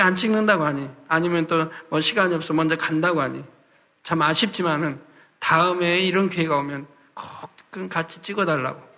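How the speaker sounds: a touch of tender coaxing, pitched a little under preaching; lightly acted loving plea. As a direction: gently model a husband's loving request. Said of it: "이렇게 사랑스럽게 말하면".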